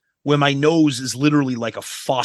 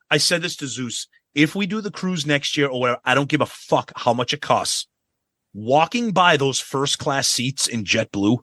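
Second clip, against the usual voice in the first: usual speaking voice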